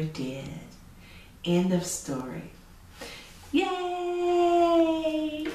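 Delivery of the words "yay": bright high yay; cheer. Real, not acted. Storyteller cheering with the children at story's end. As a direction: celebrate the ending.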